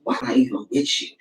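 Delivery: low, fed-up mutter; muttered slip. Retold or imitated. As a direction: let it slip under your breath mid-argument. Slipping up during an argument.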